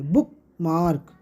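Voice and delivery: बुकमार्क, slow, as two stressed beats; both syllables stressed. Shown as a demonstration. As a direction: give बुक and मार्क equal weight in बुकमार्क. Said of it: "हम stressed बोलेंगे".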